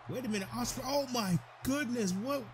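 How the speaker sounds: high, disbelieving gasp at the move; stunned. Real, not acted. Commentator stunned as Ospreay sets up A J. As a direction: react in total disbelief.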